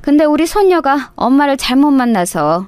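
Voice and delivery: lightly voiced older mother-in-law, sighing pity; a touch of a grieving grandmother on the phone; mother-in-law lamenting to her daughter-in-law, lightly voiced.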